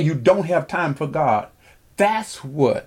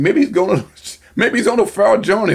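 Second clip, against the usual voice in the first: laughing mockery; 4 semitones higher, 3 dB louder than usual. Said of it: "Elijah mocked them and said".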